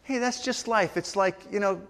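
offhand imitation of an indifferent excuse; matter-of-fact. Shown as a demonstration. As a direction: shrug it off as just how things go. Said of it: "matter of fact, you're just saying".

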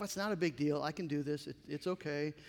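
soft, low inner voice calming herself; quiet self-talk. Retold or imitated. Martha telling herself it's fine, quietly. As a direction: murmur it to yourself, holding it in.

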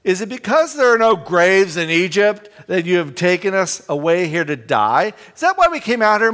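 loud, high and scornful, throwing blame at Moses; mocking complaint. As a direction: jeer at Moses as if he led them to die.

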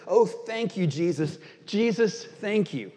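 lifted, gushing thanks to Jesus; gush of joy. Acted. Pious farm wife overcome with joy, thanking Jesus. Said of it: "a terrible pang of joy".

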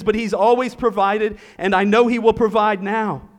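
confident Abraham. Acted. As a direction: speak as a father sure of God's promise. Preacher voices Abraham's confident reply.

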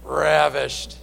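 RAVISHED low, with a long opening R; mock-Hebrew RAVISHED, stretched out; relished RAVISHED. Shown as a demonstration. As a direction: roll slowly into RAVISHED, savoring it. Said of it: "that's how you pronounce it".

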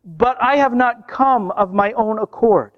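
preacher voicing Jesus' proclamation; proclaiming. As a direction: declare it deliberately, phrase by phrase with pauses. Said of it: "So Jesus proclaimed".

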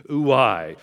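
Ouai said as oo-AI with a falling end; Greek word. Shown as a demonstration. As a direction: say Ouai for the congregation to repeat. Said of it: "Everybody say that with me".

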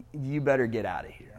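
hushed, unvoiced whisper; whispered warning. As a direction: breathe it as a secret warning. Warning David to flee.

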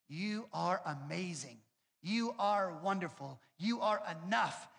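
slow, lightly mocking self-help tape voice; soothing tape voice. Pastor mocking his mom's affirmation tapes, slow soothing coo. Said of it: "had this really soothing voice".

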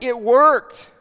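high, loud burst of amazement; amazed delight. Retold or imitated. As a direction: blurt it out, stunned that it worked. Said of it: "they're like".

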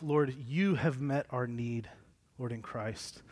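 subdued, low-key sincere prayer; spoken prayer. Real, not acted. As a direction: pray aloud for the room, gently and unhurriedly. Let me pray for us.

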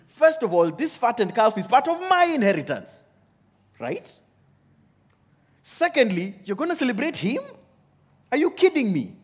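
older brother fuming at the father's party, mock outraged; indignant resentment. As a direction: vent like a wronged older brother. Older brother's indignant inner rant.

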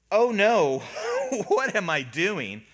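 comic dismay with a high yelp; mock panic. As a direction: imitate sudden second thoughts, half laughing. Peter panics on seeing the waves.

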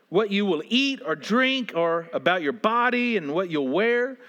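measured, earnest Bible reading; scripture reading. Acted. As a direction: read the passage with weight. Reads scripture passage.

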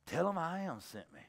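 lightly acted serene authority; calm answer. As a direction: answer quietly, unruffled.

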